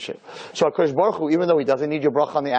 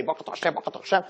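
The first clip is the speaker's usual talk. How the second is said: parroted prayer; 6 dB quieter, much faster than usual. Acted. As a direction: mumble the blessings mechanically, like a parrot. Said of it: "we go to shul and we're parrots".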